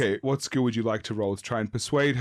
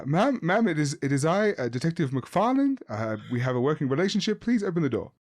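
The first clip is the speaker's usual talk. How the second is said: calling through the door; 4 semitones higher than usual. Acted. GM voices detective calling at door.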